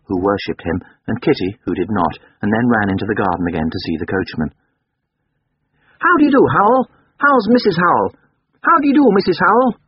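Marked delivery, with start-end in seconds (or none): 6.0-9.8 high, loud, patronizing little gentleman. A narrator's reading. Young master greeting the servants, patronizing. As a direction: greet them grandly, talking down in a child's voice. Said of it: "speaking in a patronizing voice".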